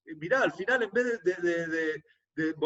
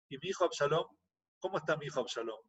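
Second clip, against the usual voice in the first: soft, hushed anxious asking; worried quiet question; 2 semitones lower, 7 dB quieter, faster than usual. Retold or imitated. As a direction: ask almost under the breath, dreading the answer. King asks about his son.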